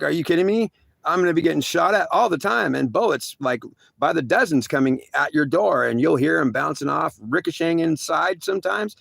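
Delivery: high, rushed, incredulous; panicked disbelief. Retold or imitated. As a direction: squeal out the disbelief. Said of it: "I was like".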